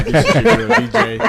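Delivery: high, loud hype intro. Real, not acted. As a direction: call out your name to the crowd. Podcast intro, host calls out.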